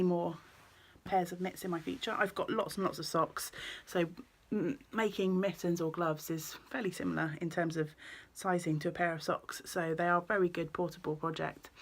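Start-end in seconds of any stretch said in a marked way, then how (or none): 4.5-11.7 talking with fibre in mouth; something held between the lips; mouth full. Real, not acted. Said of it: "sorry, I've got the fibre in my mouth".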